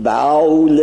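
باول with a drawn-out vowel; mock Persian pronunciation. Teacher mimics an Iranian saying باول. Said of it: "شما وقتی میگید".

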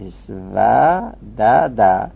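اسودده drawn out slowly for the class; slowly spelled out. Shown as a demonstration. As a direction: stretch اسودده syllable by syllable, very slow. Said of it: "اسود هم اسودده است".

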